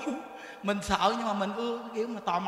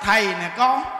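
called out loudly to calm her; loud reassurance; 6 dB louder, slower than usual. Retold or imitated. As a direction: raise the voice so she knows who it is. Thầy trấn an bà già. (gọi lớn trấn an)

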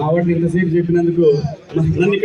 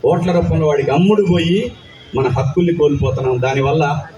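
lightly lowered, firm rousing film-speech voice; film dialogue delivery; 3 semitones lower than usual. Pretend. Actor asked by a fan for a film dialogue, mild rousing declamation. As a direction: declaim it like a hero's political monologue. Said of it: "nineties biopic one dialogue".

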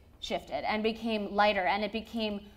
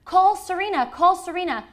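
higher, louder mock urgent dad; mock dad urgency; 7 semitones higher, 4 dB louder than usual. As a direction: rush the orders like a pushy dad. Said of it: "screaming at her".

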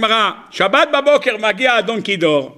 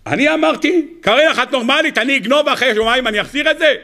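outraged husband; 6 semitones higher than usual. Acted. Husband yelling at wife.

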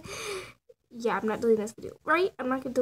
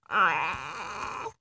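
mouth shape demo; 7 semitones lower than usual. Shown as a demonstration. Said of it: "And then I go like".

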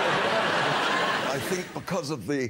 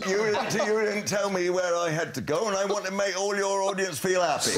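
put-on West Country accent, raised in pitch; West Country yokel; 4 semitones higher than usual. Cricket commentator defends his wandering disguise, in a West Country accent. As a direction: answer in a rustic West Country common voice. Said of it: "voice training from Wurzel Gummidge".

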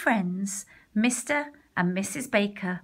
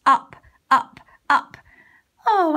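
rising excitedly; 7 semitones higher, 9 dB louder than usual. A narrator's reading. Cat pouncing upward.

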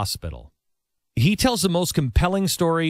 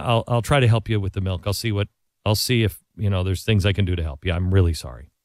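low, hushed and contrite, saying sorry from the heart; sincere apology; 4 semitones lower than usual. Retold or imitated. Romney phoning the vet to apologize, low and contrite. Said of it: "He calls him up and he says".

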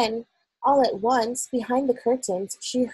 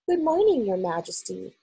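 put-on old maid voice. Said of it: "the voice of an oldish person".

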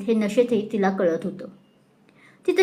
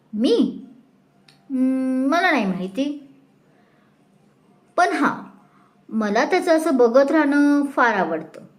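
put-on dreamy drunken babble; 3 semitones higher than usual. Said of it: "ती बरळते आपल्याच नादात".

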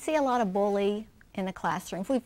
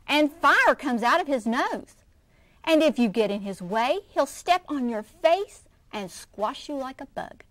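louder, breathless scary tale; frightened exaggeration; 4 semitones higher, 5 dB louder than usual. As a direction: pile on the scary details. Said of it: "screeched Chester".

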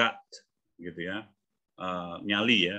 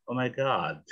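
tag American accent; slower than usual. Shown as a demonstration. British then American take shown.

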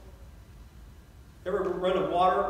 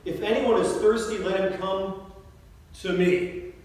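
calling out loud to the crowd; a raised, ringing call; 4 semitones higher, 4 dB louder than usual. Retold or imitated. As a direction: proclaim it loudly to the whole feast. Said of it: "says in a loud voice".

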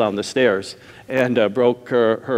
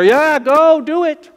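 eager urging; 12 semitones higher, 4 dB louder, slower than usual. Retold or imitated. Jethro urging Moses.

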